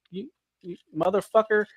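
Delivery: retold exasperated cursing; mock outrage. Retold anger at backed-out seller.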